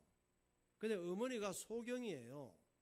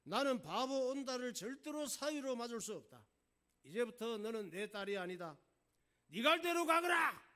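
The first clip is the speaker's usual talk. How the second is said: loud royal disowning, building to a shout; acted enraged father's decree; angry king; 6 semitones higher, 8 dB louder than usual. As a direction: build to a high, furious banishing roar. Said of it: "아버지 임금님이 화가 나서".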